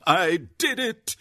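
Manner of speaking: loud, high, giddy triumph; almost crazed joy. A narrator's reading. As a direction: shout it, giddy with victory. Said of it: "She laughed almost crazily".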